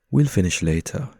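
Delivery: a touch of mischief, playful; mischievous. Acted. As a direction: tease her lightly about dinner. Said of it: "injects the right amount of mischief".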